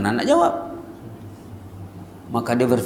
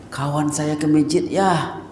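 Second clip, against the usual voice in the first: put-on child's voice; 5 semitones higher than usual. Child answers father.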